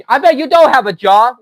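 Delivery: loud jeering accusation; angry shout. Real, not acted. Taunting the heckler about having no job, loud and angry. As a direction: throw it at him as a challenge. Heated quarrel with online heckler.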